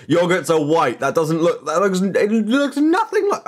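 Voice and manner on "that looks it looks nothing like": exasperated. Real, not acted. Exasperated denial.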